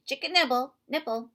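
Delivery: loud high yelled tic. A narrator's reading. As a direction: shout it out of nowhere. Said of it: "He yelled out".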